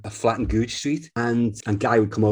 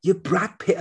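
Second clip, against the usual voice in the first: mock disbelief; 9 semitones higher, slower than usual. Repeating disbelief.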